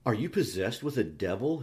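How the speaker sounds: mildly savage accusation; understated savage outburst. Acted. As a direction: challenge her with some anger. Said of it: "he pursued savagely".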